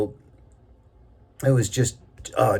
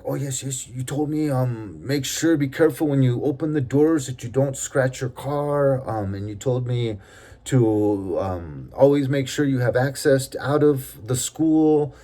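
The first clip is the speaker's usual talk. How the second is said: gardener's nervous reply; 4 semitones higher than usual. Retold or imitated. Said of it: "but very broken English".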